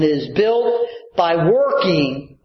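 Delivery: slow, leaning hard on "working"; stress on work. Real, not acted. Preacher to congregation, stressing "working" slowly. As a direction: press the word "working" so the church hears it. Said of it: "and I emphasize the word work".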